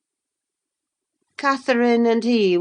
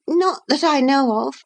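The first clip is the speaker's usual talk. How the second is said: put-on higher, hesitant girlish voice; stammering; 9 semitones higher than usual. A narrator's reading. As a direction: falter through it, higher. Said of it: "stammered Miss".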